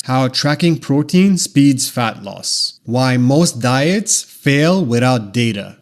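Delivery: slow, explanatory headline read; educational. Shown as a demonstration. Demo ad line for analytical thinkers, educational. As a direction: lay it out like a teacher, slowly. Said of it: "An educational tone sounds like this".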